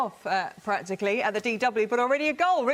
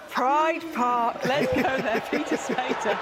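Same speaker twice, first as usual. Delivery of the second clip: higher-pitched, talking through laughter; laughing handover; 4 semitones higher, much slower than usual. Real, not acted. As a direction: hand over to the reporter while still laughing. Presenter laughing while handing over to reporter.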